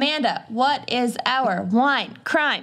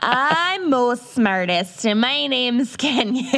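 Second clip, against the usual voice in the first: put-on laughing through a Minnesotan accent. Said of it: "unleash their worst slash best Minnesotan accents".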